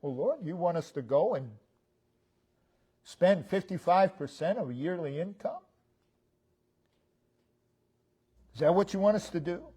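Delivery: mildly sarcastic questioning; sarcasm. Retold or imitated. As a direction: question the order with a touch of disbelief. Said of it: "There's a tone of sarcasm".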